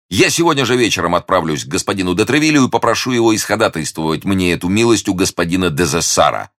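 a hint of youthful ardour; eager young hero. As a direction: lay out the plan with keen resolve. Hero announces his plan.

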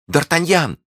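high-pitched excited calling out; joyful cry. Acted. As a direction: call out to a long-awaited love. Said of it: "закричала она".

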